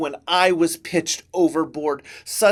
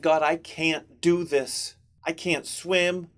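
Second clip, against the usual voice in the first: dejected. Acted. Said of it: "despondent, dejected".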